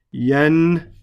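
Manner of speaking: yandamu drawn out slowly, split as yan, damu; slow teaching breakdown of yandamu; syllable by syllable. Shown as a demonstration. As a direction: say yandamu very slowly in separate parts.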